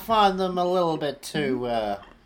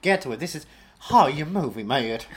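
put-on southern accent; 5 dB louder than usual. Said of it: "in this accent".

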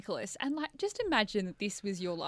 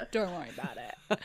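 smug; 6 semitones lower than usual. Retold or imitated. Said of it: "he was being really smug".

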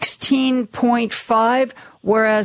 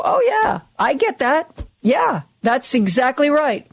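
convinced listener; 3 semitones higher than usual. Retold or imitated. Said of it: "you go".

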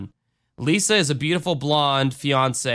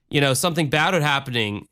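ordinary talk, nothing marked

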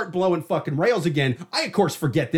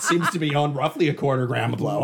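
laughing through a guilty fake denial; mock denial; 2 semitones lower than usual. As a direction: play dumb, badly hiding guilt. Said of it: "I'm just sitting there going".

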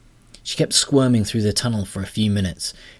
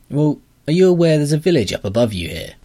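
higher and louder, scolding heroine; indignant heroine; 7 semitones higher, 6 dB louder than usual. Acted. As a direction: push back at the creature, indignant. Astrid confronting the grubber.

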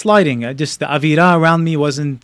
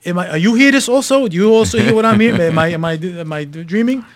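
higher, incredulous questioning, easing down; retold disbelief; 4 semitones higher than usual. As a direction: stammer it out, doubting your own ears. Stunned, asks wife if she hears.

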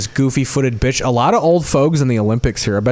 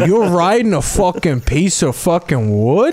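put-on Italian accent; 4 semitones higher, slower than usual. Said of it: "Italian accent".

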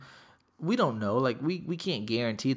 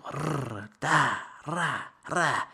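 imitated rattle; 3 semitones higher, much slower than usual. Imitated noise after storming table.

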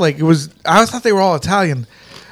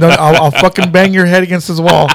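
mock threat; 3 dB louder than usual. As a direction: playfully threaten a friend, getting louder as it goes. Retold mock threat to a friend.

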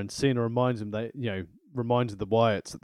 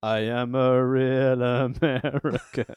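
mock Swagger voice; slower than usual. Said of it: "As he rubs massage oil over Swagger and goes".

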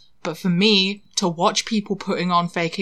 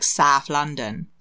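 slow, broad South London accent on "South London"; 3 semitones lower, slower than usual. Shown as a demonstration. Showing the local accent to co-hosts, broad South London accent. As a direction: draw "South London" out as "Saaf Lunnun". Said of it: "I don't have a South London accent".

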